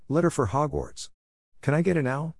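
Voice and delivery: shouting to the sky. A narrator's reading. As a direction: call it out to the empty sky. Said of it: "shouted into the empty sky".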